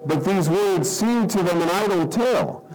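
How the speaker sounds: measured Bible reading to the congregation; solemn scripture reading. Acted. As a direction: read the passage with weight. Reading scripture aloud before prayer.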